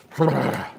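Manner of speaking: short noisy blown-out breath; quick energizing puff of breath; shake-it-off exhale. Real, not acted. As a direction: blow out air to rouse yourself. Shaking off low energy.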